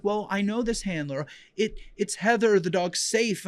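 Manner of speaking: lightly voiced confident student brushing it off; a student sure the dog is safe; mock naive student. Student excuses herself.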